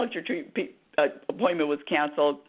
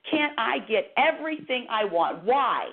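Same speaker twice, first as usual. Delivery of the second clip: demanding plea; 4 semitones higher than usual. Retold or imitated. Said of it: "wasn't really nice with my demand".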